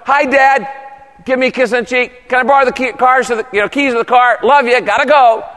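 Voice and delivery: put-on casual kid talk. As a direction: toss it off like a child dashing out. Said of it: "I like my kids to come out".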